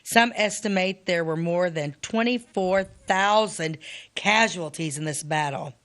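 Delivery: measured, deliberate reading of a history text; reading aloud. Acted. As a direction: read the figures out carefully, phrase by phrase. Reads battle casualty figures aloud.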